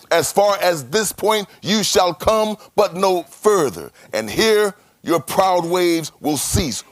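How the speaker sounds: slow, sung command to the sea; God commanding. Acted. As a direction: chant it slowly like a divine decree.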